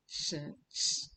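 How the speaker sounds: "Sh" as a long hissed breath with no voice; whispered sh demo. Shown as a demonstration. Teacher shows the class the C sound, breathy hiss. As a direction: push air through the teeth for "Sh". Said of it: "that's how the C goes".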